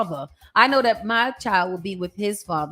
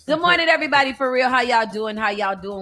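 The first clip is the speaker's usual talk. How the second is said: mic voice; faster than usual. Shown as a demonstration. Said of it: "that's what I'm gonna sound like".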